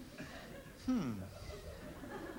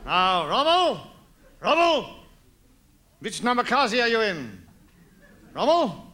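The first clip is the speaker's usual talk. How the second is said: mock Hitler calling Rommel; 3 semitones higher, 4 dB louder than usual.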